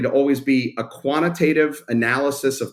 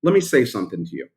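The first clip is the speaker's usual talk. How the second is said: retold bold pitch; 6 semitones higher, faster than usual. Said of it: "I gotta go for it".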